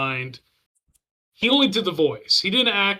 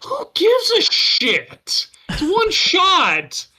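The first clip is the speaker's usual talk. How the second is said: whisper; 13 semitones higher, 4 dB louder, much slower than usual. Pretend. Mocking the Empire's attitude.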